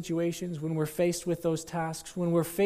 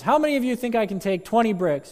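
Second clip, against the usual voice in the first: a showman rallying the crowd, louder and higher; showman's challenge; 7 semitones higher, 6 dB louder than usual. Acted. Daredevil asks the crowd, lightly acted showman. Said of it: "And he says".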